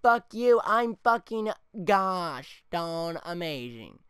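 loud, slow, gloating taunt; mock Derek Carr showing off; cocky quarterback. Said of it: "Derek Carr's like".

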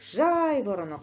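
loud call of Жайворонок with the stress hit on the first syllable ЖАЙ; teacher calls the word aloud to find the stress. Shown as a demonstration. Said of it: "гукаємо".

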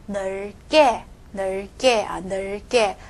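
늙게 said as 늘께, l kept; left-side consonant. Shown as a demonstration. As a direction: hold the l, then a tense 게 in 늙게. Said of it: "再加这个K的时候". (늙게读左边ㄹ，게读成께)

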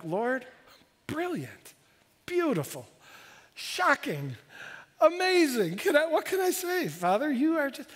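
awed whisper-prayer. Retold or imitated. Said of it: "I'm like".

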